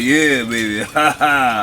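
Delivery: a hint of an old man, chuckling. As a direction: slip into a lightly voiced old man. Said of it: "I talk that old man voice".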